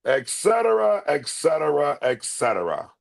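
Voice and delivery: hands on hips, falling "et cetera"s; King of Siam impression. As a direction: royal dismissal, stepping down. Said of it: "got my hands on my hips".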